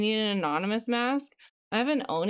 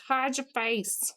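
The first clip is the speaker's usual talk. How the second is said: slow drawl; 3 semitones higher, slower than usual. Pretend. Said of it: "Australian mixed with a Southern accent".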